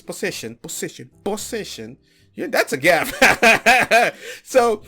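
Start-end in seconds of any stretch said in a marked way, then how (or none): 0.0-2.0 quiet mocking repeat. Shown as a demonstration.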